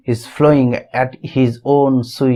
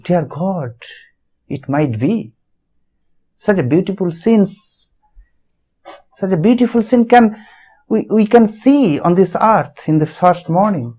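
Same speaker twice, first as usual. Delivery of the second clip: surprised; 4 semitones higher than usual. Shown as a demonstration. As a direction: breathe it out in amazed surprise. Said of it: "an intonation of surprise".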